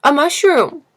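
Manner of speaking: high, loud, spat-out retort; loud, high angry answer; furious retort. Acted. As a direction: fling the word at him in rage. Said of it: "was now white with rage".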